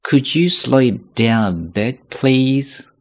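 slow, clear could you slow it down; 慢速请求; slow request. Shown as a demonstration. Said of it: "能说慢一些吗".

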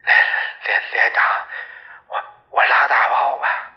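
a mild stammer, halting over each start. Acted. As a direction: stumble through the plea in fear. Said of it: "结结巴巴地说". (结结巴巴地哀求)

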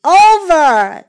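big, drawn-out call from the water; slow, stretched storybook bellow; deep voice. A narrator's reading. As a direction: call out slowly as a large creature. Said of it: "said a deep voice from the water".

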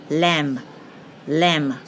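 lamb said slowly, ending on M; silent B. Shown as a demonstration. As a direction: close lamb on M, no b. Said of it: "注意B不发音".

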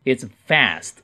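"fast" with the American flat a, as in cat; "fast" pronounced fæst, American style; American vowel. Shown as a demonstration. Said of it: "这个R音读a".

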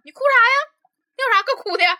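loud, high disbelief; shocked she is crying; incredulous. Retold or imitated. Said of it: "完我就震惊了". (难以置信地高声质问)

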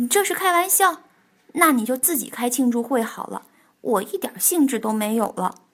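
loud retort. Acted. Bengbeng gives up on the party, mildly loud retort. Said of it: "蹦蹦大声说".

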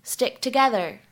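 "stick together" with the k in stick held, unreleased; loss of plosion. Shown as a demonstration. Teacher shows students "stick together" with the k unreleased. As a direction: run "stick together" together without popping the k. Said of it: "可以有一个失去爆破的处理".

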